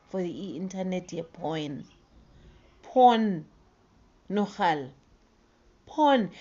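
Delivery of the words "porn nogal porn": indignant exclamation.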